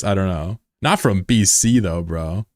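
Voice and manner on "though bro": ordinary talk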